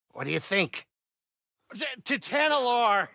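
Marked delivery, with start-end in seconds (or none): 1.7-3.1 stammering excited cry; excited shout. Acted. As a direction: blurt the name out in excitement.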